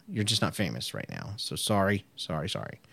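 mock apology. Apologizing to unnamed listener.

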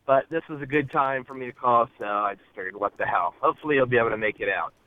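caller on a car Bluetooth speaker; car speakerphone. Real, not acted. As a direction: voice over a car phone line. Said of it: "apologize for the audio quality".

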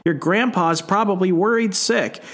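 high, fretting mother's voice; anxious mother. Retold or imitated. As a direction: fret at the child, hurried. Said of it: "she's like".

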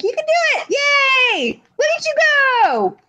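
high, cheery cheering voice; cheerleading. Pretend. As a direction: cheer him on like a fan. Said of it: "will be like".

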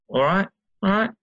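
high-pitched mock British greeting; picked-up British accent. Shown as a demonstration. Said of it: "I find myself saying".

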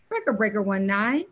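mock trucker radio call, lightly done. Friend signalling the bride to bail, mock radio call. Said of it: "I should have been saying".

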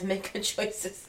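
slow, soft catchphrase; quoted catchphrase. Retold or imitated. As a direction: quote it slowly and softly. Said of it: "Like Bailey Sarian says".

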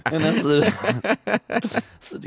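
high, loud, breaking up laughing; real laughter through the words; laughing while talking. Real, not acted. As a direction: barely get the words out for laughing. Cracking up mid-story.

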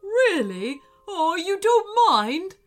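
loud, high burst of hopeful surprise; delighted. A narrator's reading. Wolf offered a new pack, delighted. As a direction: leap up in pitch and volume, thrilled.

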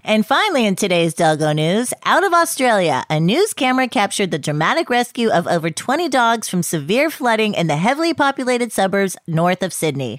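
crisp newsreader delivery; news anchor read. Acted.

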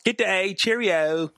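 slow, put-on British accent; mock British accent. Showing how the book's characters talk, mock British accent. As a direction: play at a British reading voice. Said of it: "read in that accent".

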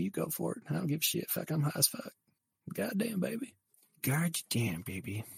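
high-pitched impression of a politician confessing; high, put-on character voice; drawling political confessor. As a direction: pitch it way up, casually owning up to scandal.

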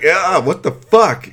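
high, loud, slowed mock outrage; outraged disbelief. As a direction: drag out the disbelief. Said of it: "It was like".

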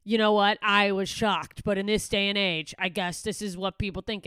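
loud, slowed mock-shocked commenter. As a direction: overplay the shock of a gullible reader. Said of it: "people in the comments like".

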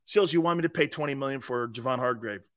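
low, scoffing disbelief at the price; lightly voiced exec scoffing at a contract demand; incredulous GM. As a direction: talk down to Sills like it's absurd. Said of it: "what I would say if I was in that building".

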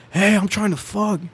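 high, slow mock holler, no real volume; imitated drunken yelling. Drunk friend accosting a girl on the train, mock yell. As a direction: draw it out like a drunk calling out. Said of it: "And then he's yelling".

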